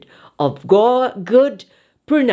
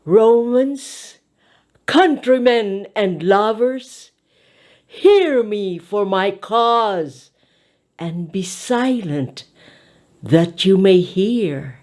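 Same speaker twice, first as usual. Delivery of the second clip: oratory demo. Shown as a demonstration. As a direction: declaim it to the back of the hall. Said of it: "With this technique".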